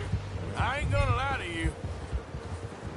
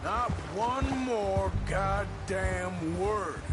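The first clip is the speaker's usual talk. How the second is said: slow menace; much slower than usual. Acted. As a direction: spell out each word like a warning. Captor threatening the captive.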